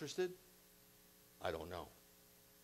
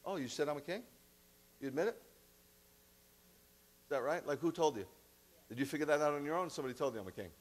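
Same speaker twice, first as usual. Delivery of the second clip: sarcastic; 3 semitones higher, faster than usual. Acted. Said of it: "typical Jewish sarcasm".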